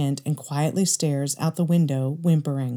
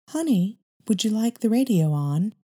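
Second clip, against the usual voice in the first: higher, careful wife's voice; timid wife; 5 semitones higher than usual. Acted. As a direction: try gently to ease the silence. Wife tries to soothe tension.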